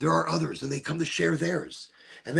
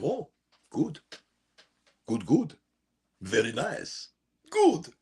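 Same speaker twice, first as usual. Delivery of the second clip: slipping into a lightly voiced vampire; a hint of a creepy vampire savoring it. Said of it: "the vampire voice starts to come out".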